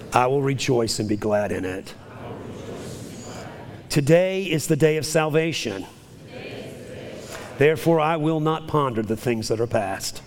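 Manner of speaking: rhythmic call-and-response declaration, rising to a fervent build; leading a confession. Acted. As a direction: proclaim each line for the church to repeat. Leads congregation in spoken confession.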